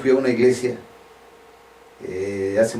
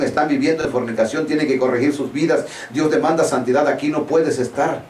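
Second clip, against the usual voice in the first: normal talking voice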